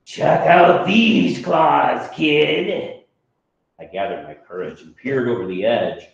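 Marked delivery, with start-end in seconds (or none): 0.1-3.1 mild rasp. Acted.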